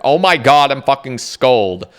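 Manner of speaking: loud, disbelieving outburst; stunned excitement. Retold or imitated. Gamer reacting to a rare drop, loud shocked excitement. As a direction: burst out in shocked delight. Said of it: "You're like".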